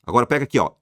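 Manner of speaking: ordinary delivery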